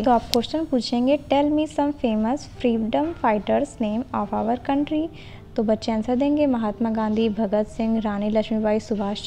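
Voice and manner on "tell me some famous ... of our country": very slow, every word spaced for note-taking; slow dictation. Shown as a demonstration. Teacher dictating a model question to trainee teachers, very slow. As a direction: spell it out slowly so they can write it down.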